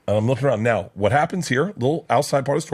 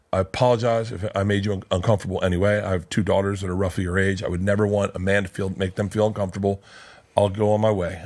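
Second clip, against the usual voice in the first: calm apology; 4 semitones lower than usual. Retold or imitated.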